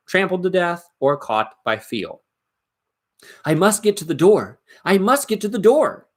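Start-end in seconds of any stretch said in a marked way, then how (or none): 3.5-6.1 anxious self-talk. Acted. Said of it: "he kept on saying to himself".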